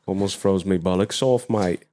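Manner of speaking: a low-voiced British mate; British slang. Repeating the bollocks joke to co-host, British accent. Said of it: "as the Brits say".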